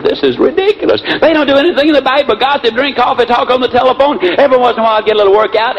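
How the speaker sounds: high-pitched, hammed-up indignation; upset switchboard operator. Switchboard operator complains about office gossips, mock indignation. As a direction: act out a put-upon operator's complaint, pitched well up. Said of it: "if you think she's upset".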